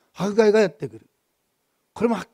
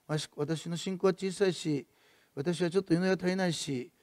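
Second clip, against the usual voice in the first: self-doubting inner voice; 7 dB quieter than usual. Retold or imitated. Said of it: "私のことですけど".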